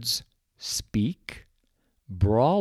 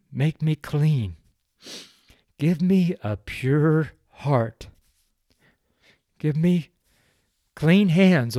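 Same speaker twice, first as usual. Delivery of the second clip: heartfelt prayer. Acted. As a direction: pray it humbly, from the heart. Prays aloud on podcast.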